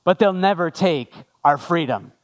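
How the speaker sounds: famous battle line, delivered with weight; William Wallace. Acted. Pastor quoting the film's famous line, measured and lightly dramatic. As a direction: pause before the last words for mild dramatic effect. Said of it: "you know this line".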